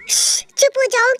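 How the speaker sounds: shushing a companion; urgent hush. Acted. Girl hushing boyfriend so Dad won't hear, urgent hush.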